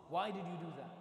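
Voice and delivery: loud, accusing question; mock harsh scolding. Imagined master to young servant who erred, harsh scolding. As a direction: scold someone for a mistake, acted. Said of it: "mean to me or harsh with me".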